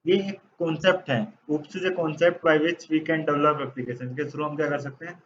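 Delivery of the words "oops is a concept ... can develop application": dictating slowly. Shown as a demonstration. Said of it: "teacher dictates definition slowly".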